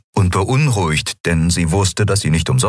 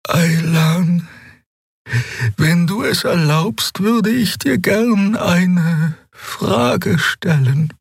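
put-on much higher, slow, awed young voice; young healer Xea; 13 semitones higher, much slower than usual. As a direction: speak with reverent wonder, slowly. Sie brauchte einige Überwindung. (hohe, langsame, ehrfürchtige Stimme)

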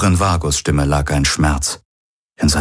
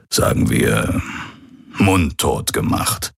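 lightly voiced old pirate confessing; a touch of rueful self-reproach, with deliberate pauses. Old pirate confesses his lies. (leicht angedeuteter alter Pirat, reumütig)

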